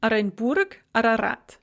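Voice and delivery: "Arenburg, Ararat" each opening on an ah; Russian "Arenburg, Ararat", first vowel a clear a; initial vowel as "a". Shown as a demonstration. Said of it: "are pronounced a".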